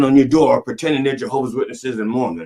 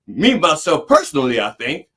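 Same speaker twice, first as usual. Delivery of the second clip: mocking comedian; 3 semitones higher than usual. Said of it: "I'd rather hear him say that than".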